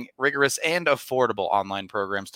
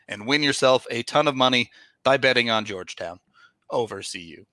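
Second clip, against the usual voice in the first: upbeat sponsor read. Acted. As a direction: pitch it like a podcast ad. Reads sponsor ad.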